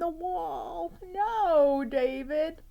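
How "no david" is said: high, loud stern mother calling out; scolding mom. Acted. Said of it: "David's mom always said".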